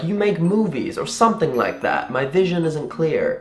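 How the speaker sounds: slipping Southern lady impression; high, half-held Southern seer voice; Southern accent. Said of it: "That just turned into a me accent".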